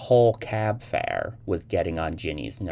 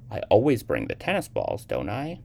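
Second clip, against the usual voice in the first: unpleasantly; 4 semitones higher than usual. Acted. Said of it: "Selena asked unpleasantly".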